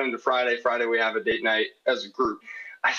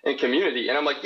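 ordinary talk, nothing marked

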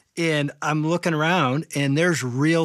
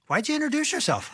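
high, quick, baffled query; puzzled question; 12 semitones higher, faster than usual. Retold or imitated. Foursome questioning the unknown newcomer, high and puzzled. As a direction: ask it fast, pitched right up.

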